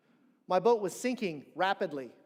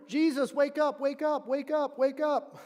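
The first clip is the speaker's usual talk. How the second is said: higher and louder, insistent calling; urgent waking; 6 semitones higher, 3 dB louder than usual. Retold or imitated. Disciples frantically waking the sleeping Jesus, urgent calling. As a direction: shake him awake with your voice.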